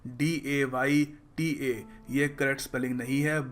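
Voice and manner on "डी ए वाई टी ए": slow spelling as a sound hint. Shown as a demonstration. Teacher spells the hint slowly. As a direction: spell डी ए वाई टी ए slowly, letter by letter. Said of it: "pronounce करना कैसे है".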